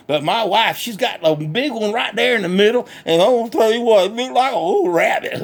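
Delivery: lightly voiced country hick, cheerful and boastful; redneck Bubba. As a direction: play a proud backwoods redneck bragging. Bubba on wife's teeth.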